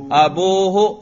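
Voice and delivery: "ابوہ" with a long oo, abūhu; raf' ending pronounced. Shown as a demonstration. Teacher demonstrating the raf' form to students, ending pronounced. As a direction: sound out "ابوہ" as a-boo-hu. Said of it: "لفظاً کیوں؟ کیونکہ اس کے رفع پر ہم تلفظ کر رہے ہیں".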